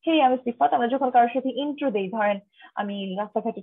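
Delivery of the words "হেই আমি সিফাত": casual intro. Shown as a demonstration. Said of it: "খুব normally কাউকে বলি".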